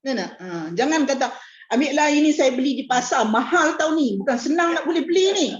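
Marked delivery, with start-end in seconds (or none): 1.7-5.5 arrogant boast. Shown as a demonstration. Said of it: "itu cakap orang yang bongkak".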